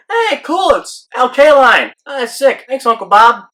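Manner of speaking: high-pitched, gushing gift reaction; put-on excited thanks; acted delight. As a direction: pitch way up, play the thrilled nephew. Acts out reaction to opening gift.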